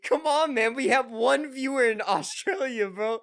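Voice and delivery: high, loud, laughing plea; loud protest. Real, not acted. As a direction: protest loudly through amusement. Mock protest at the offensive joke.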